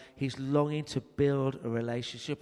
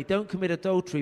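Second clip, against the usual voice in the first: don't commit adultery as a caring plea, not a command; gently pleading, a hint of tenderness; loving warning; 5 semitones higher, 3 dB louder, faster than usual. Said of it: "but not the way you said it".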